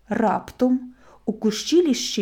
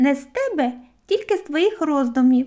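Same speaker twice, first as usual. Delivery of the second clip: high, squeaky little voice; 5 semitones higher than usual. A voice from the branches above answers the boy, squeaky voice. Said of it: "відповів згори писклявий голос".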